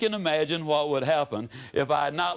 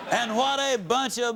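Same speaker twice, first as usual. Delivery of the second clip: laughing; 8 semitones higher than usual. Real, not acted. Laughing at his old delivery.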